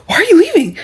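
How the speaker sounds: mock whisper. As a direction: whisper it like the nosy coworkers. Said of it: "I keep getting the question".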